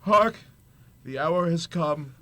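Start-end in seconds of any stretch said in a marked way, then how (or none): 0.0-0.3 a sudden loud, raised cry; booming announcement; commanding call. Acted. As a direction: summon everyone's attention at once. Ghost announces the hour.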